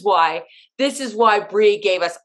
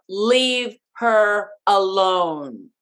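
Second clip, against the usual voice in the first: livid; much slower than usual. Retold or imitated. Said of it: "I was livid".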